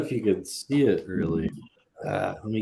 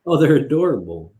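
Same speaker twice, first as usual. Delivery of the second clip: excited; 4 semitones higher, 9 dB louder, faster than usual. Real, not acted. Coos over skunk photos.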